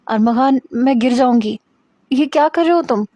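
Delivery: scared she'll fall, begging him to stop; frightened protest. Acted. Hira, scared of falling, pleads with Armaghan, alarmed.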